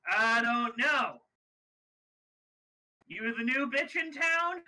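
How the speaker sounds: slow, loud challenge from a thug; menacing biker. Acted. Biker gang man taunts the newcomer woman, slow and loud. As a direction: lean in and growl the threat slowly. Biker leader confronts the heroes.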